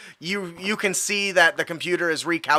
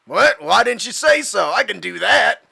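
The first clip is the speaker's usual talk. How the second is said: higher, eager cabbie voice; excited cab driver; 3 semitones higher, 3 dB louder than usual. Acted. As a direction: play a driver delighted to be asked to hurry. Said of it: "He's just excited".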